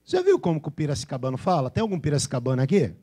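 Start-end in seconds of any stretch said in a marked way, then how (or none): none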